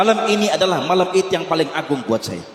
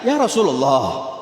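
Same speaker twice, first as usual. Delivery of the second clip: high, self-mocking plea with a laugh; a poor man laughing at his own face as he begs; humble pleading suitor; 8 semitones higher than usual.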